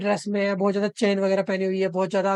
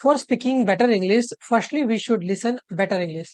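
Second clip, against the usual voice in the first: slow dictation; much slower than usual. Shown as a demonstration. Reads the key sentence slowly.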